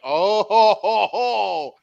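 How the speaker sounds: high, drawn-out mock oh-ho-ho; retold gleeful disbelief. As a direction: react as if spotting an old enemy. Retold reaction to spotting old enemy.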